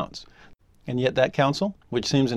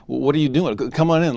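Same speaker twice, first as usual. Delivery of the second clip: flustered, louder stammer; stammering shock; 3 semitones higher, 4 dB louder than usual. Retold or imitated. Russell flustered to find Turley at his door, loud stammering. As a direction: trip over the first sounds in surprise.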